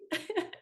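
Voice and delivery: a high wet laugh through tears; teary laugh. Real, not acted. Teacher laughing through tears at her own crying, high teary laugh. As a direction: laugh at herself while crying. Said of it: "why I'm crying".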